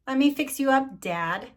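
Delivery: a hint of a bright eager kid; mildly voiced young Dan; lightly voiced eager boy. Dan's voice in book.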